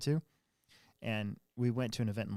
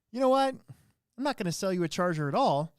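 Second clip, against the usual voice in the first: higher, louder, telling the customer off; imagined angry retort; 5 semitones higher, 3 dB louder than usual. Pretend. Manager's imagined rant at the rude customer, higher and louder. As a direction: unleash what you wanted to say. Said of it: "I wanted to go".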